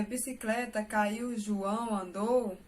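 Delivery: slow, disjointed words read as a list; halting word-by-word example. Shown as a demonstration. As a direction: drop the words one by one with no link. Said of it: "se eu colocar".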